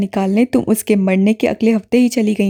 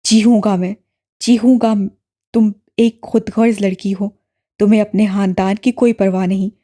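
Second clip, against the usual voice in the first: low, louder furious brother; yelling in anger; 4 semitones lower, 3 dB louder than usual. A narrator's reading. Brother raging at his sister, low loud yelling. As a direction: hurl every accusation at her. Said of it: "بلند سے بلند آواز میں گرا رہا تھا".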